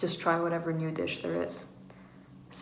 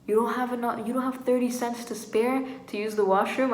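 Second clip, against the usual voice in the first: higher, mildly raised scolding voice; half-yell it in imitation, pitched up; mock yelling; 5 semitones higher, 3 dB louder than usual. Washroom attendant turning away a non-payer, mock yelling. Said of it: "she was yelling at me".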